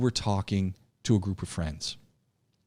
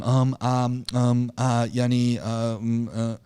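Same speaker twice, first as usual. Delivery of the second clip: filler sounds; slower than usual. Shown as a demonstration. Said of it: "Because you weren't going".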